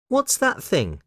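put-on high, curious child; Lucy. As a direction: ask with a little girl's curiosity, pitched high. Lucy asks about the laundry.

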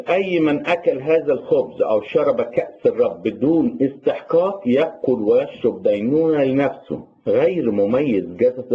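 quick, rhythmic reading of a Bible verse; fast liturgical Arabic scripture reading; scripture recitation. Acted. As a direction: recite the passage fluently, like reading in church. Reads scripture aloud in Arabic.

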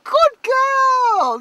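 high, loud cheer of praise; bursting, high-pitched praise for the learner daughter; delighted praise. Real, not acted. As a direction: cheer her on like she just won. Praising daughter for driving forward.

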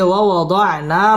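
"ওয়া ওয়াদা'না" with the final aa held one beat; "ওয়া ওয়াদা'না" ending on a lengthened aa; one-alif madd. Shown as a demonstration. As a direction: stretch the last vowel of "ওয়া ওয়াদা'না" briefly. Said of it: "এক আলিফ টেনে পড়তে হবে".

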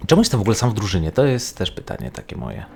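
ordinary delivery

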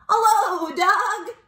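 high, loud sing-out greeting; cheery high-pitched character hello; Duck. Acted. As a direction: call out hello in a high storybook voice. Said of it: "said Duck".

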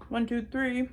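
put-on counting out for the kids, excited. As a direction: land the last number with glee. Counting the strawberries aloud.

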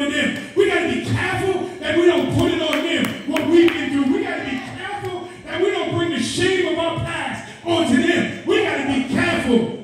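exhorting church preacher in full flow; impassioned preaching. Real, not acted. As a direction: preach it urgently to the congregation.

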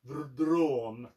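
DROM with a stuttered, rolled retching onset; vomiting-like. Shown as a demonstration. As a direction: heave up DROM like bad aquavit. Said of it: "vomiting, like, Swedish aquavit".

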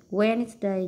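Wednesday with the first syllable stressed; Wednesday, weight up front on WEDNES. Shown as a demonstration. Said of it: "nhấn âm một".

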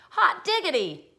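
high, slow, drawn-out glee; excited exclamation. Acted. Philip hears it's his favorite dinner, excited exclamation. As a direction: savor it like a delighted kid.

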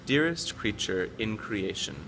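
slow, measured poem reading with careful word-by-word pauses; poem recitation. Acted. Reading the poem Chaos to show tricky English pronunciation, measured recitation. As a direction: recite each rhyming word slowly and distinctly.

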